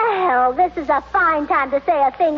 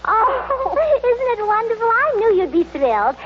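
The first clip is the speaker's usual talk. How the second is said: giggling delight; 6 semitones higher than usual. Acted. Gleeful hostess announces elopement.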